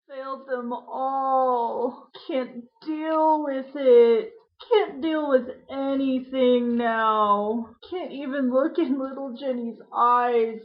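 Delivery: broken, slow and tearful; barely holding back tears; despairing, near tears. Acted. Man on the phone breaking down in despair.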